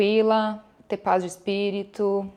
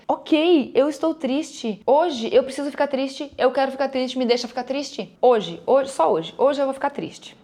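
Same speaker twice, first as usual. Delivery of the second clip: gentle self-permission, a touch higher; accepting sadness; 4 semitones higher than usual. Shown as a demonstration. Coaching viewers' inner talk, gently accepting sadness. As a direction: give yourself leave to be sad.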